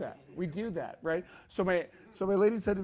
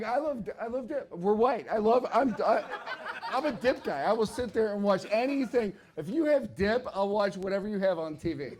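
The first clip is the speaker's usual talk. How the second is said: mock-eager, higher and a bit louder; eager reply; 4 semitones higher, 4 dB louder than usual. Answering mom's dip offer, mock-eager gushing. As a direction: gush like a dip fanatic.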